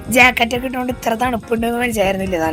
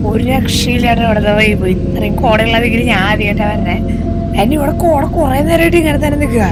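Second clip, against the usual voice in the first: excited; 6 dB louder than usual. Real, not acted. Raving about the thick mist.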